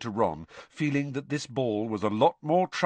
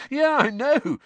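laughing; 8 dB louder than usual. A narrator's reading. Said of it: "as he started to laugh".

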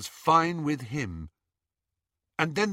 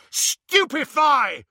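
higher, louder, slow spell shout; yelled spell; 11 semitones higher, 6 dB louder, slower than usual. A narrator's reading. Harry at Greyback, yelled spell. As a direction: fling the curse out at full voice. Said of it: "and yelled".

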